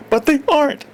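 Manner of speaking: put-on high nasal New England accent snapping back; nasal Yankee snap. A narrator's reading. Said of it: "snapped in her nasal Yankee voice".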